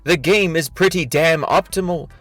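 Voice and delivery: overwrought, mock-solemn reading of a statement; dramatic reading. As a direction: read it like a grand, self-important speech. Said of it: "This is a dramatic reading of his thread".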